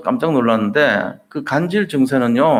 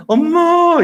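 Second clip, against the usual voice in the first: much higher, louder, wailing call; near-tearful cry for mom; 6 dB louder, much slower than usual. Retold or imitated. Humiliated disciples wanting to cry: high tearful call. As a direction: cry out like a child wanting to weep. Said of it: "이렇게 울고 싶은 그 상황".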